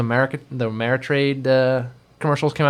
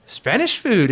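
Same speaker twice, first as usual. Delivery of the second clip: put-on high, eager boyish voice; Butchie excited; 6 semitones higher, much slower than usual. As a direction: gush like a kid at a new menu. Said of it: "Butchie's like".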